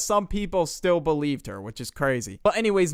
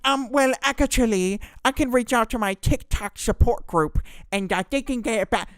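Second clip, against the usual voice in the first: mock smug girl; 9 semitones higher, 4 dB louder than usual. Girl's smug reply.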